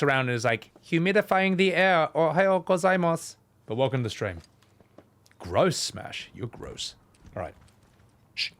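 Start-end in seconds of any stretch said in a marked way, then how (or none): 0.9-3.4 higher, chirpy imitation of a cute helper; lightly voiced cheerful robot greeting; mock chirpy character. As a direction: chirp it like an annoying mascot. Mimicking game character's chirpy line.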